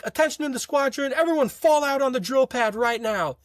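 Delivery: high-pitched imitation of an instructor's order; mock commanding announcement. Instructor summoning the squadron over intercom, mock commanding.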